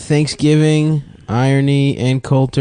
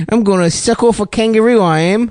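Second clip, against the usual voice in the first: higher mock South African accent; clumsy put-on South African voice; bad South African accent; 6 semitones higher than usual. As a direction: friends mocking each other's dad, mild fake South African accent. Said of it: "That's not how South Africans sound".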